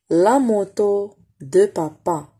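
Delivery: "La moto de papa" spaced out slowly; slow reading model. Shown as a demonstration. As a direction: read slowly word by word. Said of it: "reading model for pupils".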